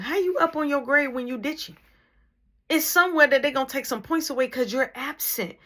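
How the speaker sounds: retold mom scolding. Mom scolding son for ditching class.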